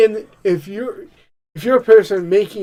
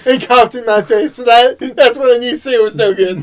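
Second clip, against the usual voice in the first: a light Trump voice, rising higher as laughter breaks in; Trump impression; 3 semitones higher, 7 dB louder than usual. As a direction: play Trump whining about Sarah. Continues Trump riff.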